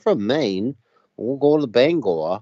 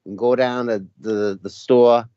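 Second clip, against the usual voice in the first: Boston accent. Shown as a demonstration. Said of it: "The Boston accent is sort of like".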